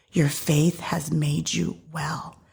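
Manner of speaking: slow, hushed reassurance; gentle blessing. Acted. Jesus sending the healed woman in peace, gently.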